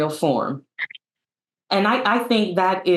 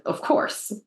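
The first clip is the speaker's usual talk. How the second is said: whispered aside; a quick whispered repeat; 5 dB quieter than usual. Real, not acted. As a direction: drop to a whisper.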